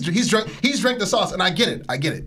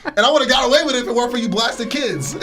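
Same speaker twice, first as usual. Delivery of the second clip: Scooby-Doo villain line; 5 semitones higher, 3 dB louder than usual. Retold or imitated. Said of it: "like the Scooby-Doo mask".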